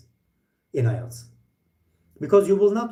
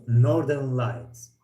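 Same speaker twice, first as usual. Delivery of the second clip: "Northern Lights" at half speed, lower, between pauses; name set apart; 4 semitones lower, much slower than usual. Shown as a demonstration. Teacher showing how to separate names, slow "Northern Lights". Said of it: "As you see, give a pause".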